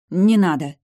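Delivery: loud, high stop; sharp stop. Acted. Heroine stops grandfather's talk, loud and sharp. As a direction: cut him off loudly.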